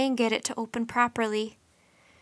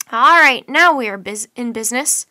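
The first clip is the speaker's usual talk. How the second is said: loud, eager cheer; excited exclaim; 10 dB louder than usual. A narrator's reading. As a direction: Mike thinks he hears the party, loud eager exclaim. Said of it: "Mike exclaimed".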